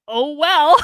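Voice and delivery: high, loud, laughing dismissal; gleeful shrug. Retold or imitated. Part of her not sorry for him, laughing shrug. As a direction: toss it off brightly into a laugh. Retold unbothered part of herself.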